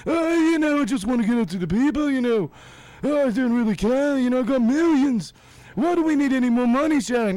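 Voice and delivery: high, loud slurred rocker voice; hammed-up rock singer; the singer rambling. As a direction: ramble like a burnt-out rock star. Acted exchange between the rock singer and Sharon.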